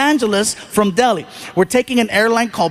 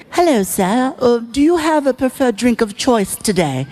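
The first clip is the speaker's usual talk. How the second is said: 1 polite attendant; 2 semitones higher than usual. Retold or imitated. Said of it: "and she goes".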